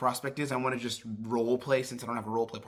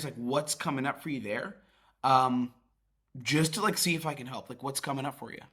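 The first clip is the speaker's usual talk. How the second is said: gentle, caring curiosity; empathetic tone. Shown as a demonstration. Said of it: "do you hear the genuine empathetic tone".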